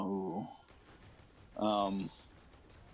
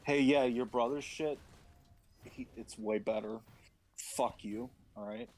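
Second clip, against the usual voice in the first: mock God voice; 4 semitones higher than usual. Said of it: "He's like".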